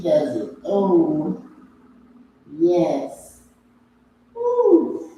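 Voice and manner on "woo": excited whoop. Real, not acted. Whoop during stretch.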